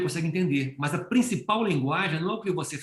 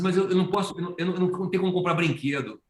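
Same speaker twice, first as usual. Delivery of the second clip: hesitant pastor; 5 semitones higher, faster than usual. Retold or imitated. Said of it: "ele falou assim".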